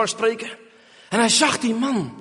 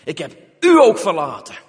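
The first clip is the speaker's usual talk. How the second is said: pleading prayer; 3 semitones lower, 4 dB louder than usual. Retold or imitated. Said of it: "de roep omhoog".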